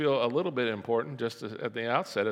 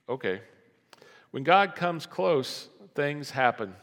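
usual speaking voice

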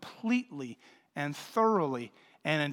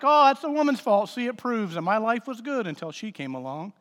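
mock-smug man, pitched up on the first line; smug misreader; 4 semitones higher, 3 dB louder than usual. Preacher mocking men who blame Eve, lightly pitched up. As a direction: play the self-satisfied guy blaming the woman. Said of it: "that's how a lot of people read this".

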